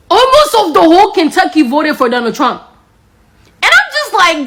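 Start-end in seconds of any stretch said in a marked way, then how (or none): none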